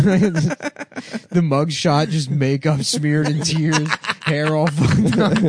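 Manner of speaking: drawn-out high mock lament; dramatic slow. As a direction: paint the sorry picture slowly. Describing mugshot with dramatic slowness.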